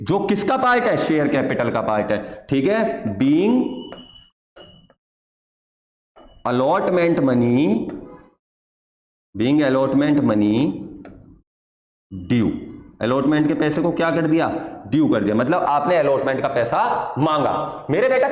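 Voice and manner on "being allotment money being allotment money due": very slow, with long pauses between phrases; slow dictation. Shown as a demonstration. Teacher dictating the narration to students copying it down, slow and spaced. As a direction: spell it out phrase by phrase for students to copy. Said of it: "pause करके copy करते रहना".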